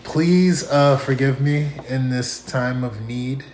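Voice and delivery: tipsy and giggling. Real, not acted. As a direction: speak like you've had a few. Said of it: "I'm a little tipsy".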